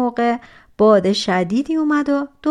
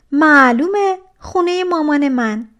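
cocky; 6 semitones higher, 7 dB louder than usual. Acted. Rude stepsister answers the giant.

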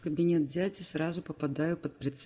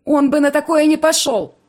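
much higher and louder furious shout; angry yell; 12 semitones higher, 16 dB louder than usual. Acted. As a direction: shout him down. Irma shouting at Alex.

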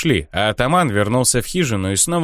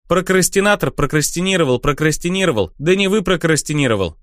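patter; 6 semitones higher than usual. Acted. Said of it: "бойко протараторил Крикун".

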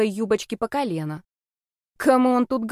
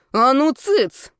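louder, slow sharp order to hush; 5 semitones higher, 5 dB louder, much slower than usual. Acted. Sister silencing her brother, slow loud hushing order. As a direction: cut him off hard.

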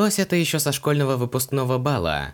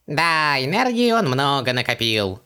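talking through a mouthful; words round a bite of food; mouth full; 3 semitones higher than usual. A narrator's reading. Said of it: "с набитым ртом согласился Хубаксис".

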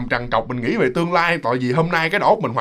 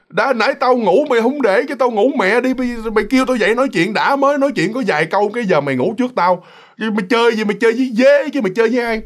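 higher, quick-fire griping; annoyed scolding; 5 semitones higher than usual. Retold or imitated. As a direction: tell off a friend in mock exasperation. Friend scolds the one who slept.

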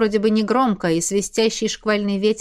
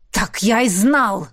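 hissed; 3 dB louder, slower than usual. Acted. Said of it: "прошипел".

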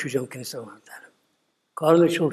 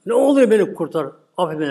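mild begging; 3 semitones higher, 4 dB louder than usual. Retold or imitated. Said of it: "Yalvarıyor Musa ya".

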